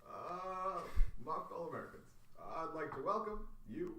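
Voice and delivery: a hint of Obama opening an address; Barack Obama impression. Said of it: "And I'm Barack Obama".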